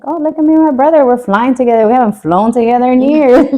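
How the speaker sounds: making light of it, chirpy; mock cheerful. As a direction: sister jokes to cousins about flying with her brother, mock cheerful. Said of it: "sending pictures to my cousins".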